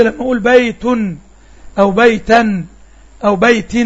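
بيت and بيتا with the nun at the end clearly heard; nunation demo. Shown as a demonstration. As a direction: sound out the tanween so the nun comes through. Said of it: "أنت سمعت مني إيه".

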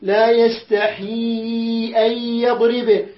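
slow recitation with every madd stretched; Quran recitation. Shown as a demonstration. Teacher reciting the verses slowly for students. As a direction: recite slowly, holding the long vowels. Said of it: "الألف بدها".

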